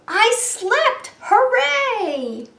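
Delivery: high, loud triumphant cheer; Arlo. A narrator's reading. Lion tells the owl he slept, roaring. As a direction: roar the good news out joyfully. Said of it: "roared Arlo".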